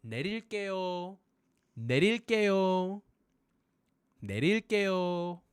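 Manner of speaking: 내릴게요 called out fast; shouting 내릴게요. Shown as a demonstration. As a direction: call 내릴게요 quickly over a crowd. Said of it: "Shout this magic word".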